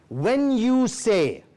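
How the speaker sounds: "When you say," spelled out slowly, "you" stressed; slow, weighted "When you say,"; deliberate phrasing. Shown as a demonstration. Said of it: "You have to say it this way".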